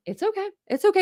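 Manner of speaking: mock-soothing, trying to keep it calm; soothing mom imitation. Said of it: "keep it calm".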